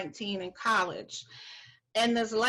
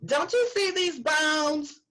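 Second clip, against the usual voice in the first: slow, higher, pointed disbelief; slow pointed question; 7 semitones higher, 3 dB louder, slower than usual. Retold or imitated. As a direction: spell out the obvious to her, slowly. Waitress arguing with customer.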